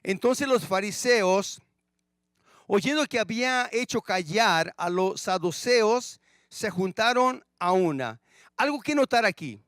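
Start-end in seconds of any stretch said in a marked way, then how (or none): 0.0-8.2 scripture reading. Shown as a demonstration. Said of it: "dice el primer versículo que vamos a estudiar así".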